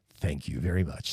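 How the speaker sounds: hushed, very low, soft late-night radio-host voice. Welcomed onto the show by the host, thanking him in a late-night radio voice. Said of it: "This is my late night radio voice".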